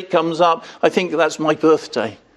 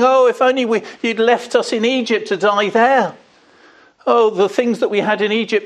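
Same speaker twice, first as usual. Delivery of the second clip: mock moaning; 6 semitones higher than usual. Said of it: "they start moaning".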